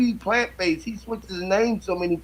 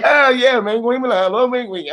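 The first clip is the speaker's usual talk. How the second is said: mock French; 5 semitones higher than usual. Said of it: "They said".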